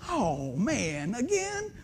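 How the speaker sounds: a hint of mama, soft then high on again; lightly voiced mother, disappointed and soft; mama's dismay. Son breaks the news, mama answers softly.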